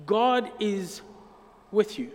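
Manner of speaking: God is WITH you, leaning on WITH; a quiet, deliberate stress on with. Shown as a demonstration. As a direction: press the word with and let the line fall. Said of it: "That was very quiet".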